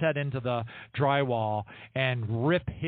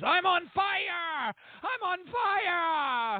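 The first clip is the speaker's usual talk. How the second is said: mock, very high, very slow, drawn-out scream. Retelling what the Satanist upstairs yelled: imitating someone screaming. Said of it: "screaming at the top of his lungs".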